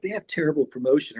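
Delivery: lighter, gentler version of the verdict; softened put-down. Retold or imitated. How Rick Rubin didn't say it, softened. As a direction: say it as a milder aside. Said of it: "not even like".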